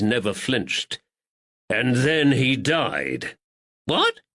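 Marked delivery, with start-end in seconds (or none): 1.7-3.4 pointed and slow. Acted. Woods pointed. 3.9-4.2 high startled squeak; shocked. Acted. Thatcher shocked.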